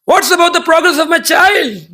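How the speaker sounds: a hint of an imperious father asking about his son; demon king father. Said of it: "Hiranyakashipu is a parent".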